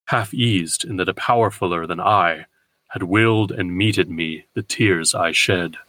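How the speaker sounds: slow, measured verse reading; unhurried, weighted verse; poetry recitation. Acted. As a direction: recite the poem deliberately. Reads the poem aloud.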